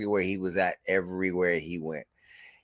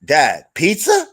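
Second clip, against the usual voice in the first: put-on slow, hopeful kid asking his dad, louder and a bit higher; pleading kid; 6 semitones higher, 7 dB louder, slower than usual. Son begs his dad for pizza, slow and pleading. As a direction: draw it out like a son begging for pizza. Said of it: "he looks at me, he goes".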